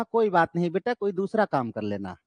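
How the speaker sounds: soft, gentle mother consoling her son; lovingly. Retold or imitated. Mother gently comforting son after father shouts. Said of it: "mummy ने बड़े प्यार से कहा".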